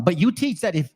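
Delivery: slightly hurried scripture reading; a little fast. Real, not acted. Preacher rushing a little through the verse to his audience. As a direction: read it a touch too quickly. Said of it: "I'm going a little fast, my bad".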